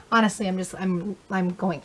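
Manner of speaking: breathless, gasping between words; winded, struggling for air; out of breath. Real, not acted. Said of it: "I'm getting out of breath".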